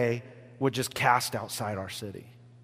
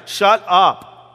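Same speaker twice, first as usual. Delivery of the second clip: loud, curt mock snap; mock snapping at a beggar to hush; rude shushing; 5 semitones higher, 10 dB louder than usual. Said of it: "they were just like".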